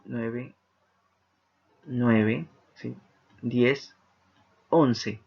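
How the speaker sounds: counting out each syllable slowly, one by one. Shown as a demonstration. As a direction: tick off the syllables slowly on your fingers. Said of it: "Tenemos once". (conteo lento de sílabas)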